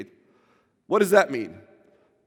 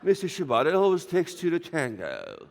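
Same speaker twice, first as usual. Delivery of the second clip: laughing through a hammed-up English accent; mock the English interviewer's accent with a laugh; 3 semitones lower than usual. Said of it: "I can't stand that accent".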